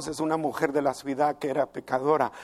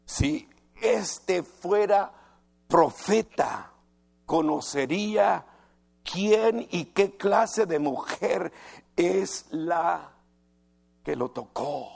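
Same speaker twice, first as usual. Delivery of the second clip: slow, louder, contemptuous muttering aloud; scornful Pharisee; 2 semitones higher, 3 dB louder, slower than usual. Retold or imitated. The Pharisee judging Jesus to himself, slow scornful voice. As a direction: spell out each word with disdain. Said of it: "dijo para sí".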